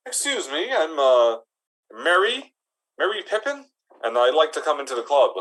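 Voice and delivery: high, timid little hobbit voice. Acted. Hobbit asking the orc bouncer to enter, high and timid. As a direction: pitch it up high like a small hobbit.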